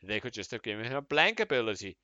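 indignant, rising rant; building outrage. Acted. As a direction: read it as a growing grievance. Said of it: "I worked up to the angry man there".

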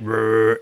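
low mock dog growl; a man imitating a growling dog; imitated dog growl. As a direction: growl like a deep, guarding dog. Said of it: "like a deep".

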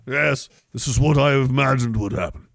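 lightly voiced pompous king; regal dwarf king. Imagined dwarf lord answering the herald, lightly voiced. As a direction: speak it like a satisfied monarch.

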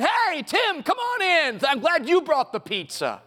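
casual warm welcome. Retold or imitated. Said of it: "he just said".

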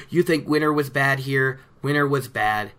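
hammed-up doom-monger, every line landing on a heavy, dropping "everywhere"; a mock sinister herald of disaster; ominous peddler. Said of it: "So he goes on with his whole".

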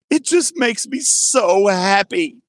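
high, drawn-out mock crying; imitated bawling. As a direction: imitate a child bawling from happiness. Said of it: "He was bawling".

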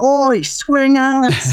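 high, drawn-out mock heckle; retold shout. Shouting from a car window at swingers, imitated heckling call. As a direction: call it out slowly like a passing heckler. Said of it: "just shouted out".

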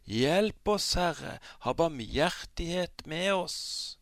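high, loud desperate plea; crying out for help. Acted. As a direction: call out to be rescued. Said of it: "ropte de ut og sa".

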